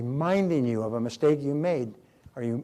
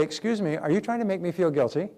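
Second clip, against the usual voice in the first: polite challenge; 4 semitones higher than usual. Shown as a demonstration. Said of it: "you say".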